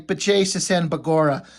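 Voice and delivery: lively mock-Irish leprechaun exclamation; playful stage-Irish outburst; Irish leprechaun accent.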